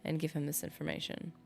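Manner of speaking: a light touch of gravel reading the note; slightly gravelly, achy-throat read. Acted. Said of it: "hammed up the graveliness just a tiny bit".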